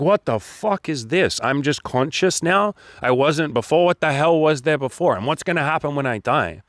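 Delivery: bewildered newborn. Acted. Coach voices a newborn confronting existence, mock bewilderment. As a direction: play a baffled newly conscious being.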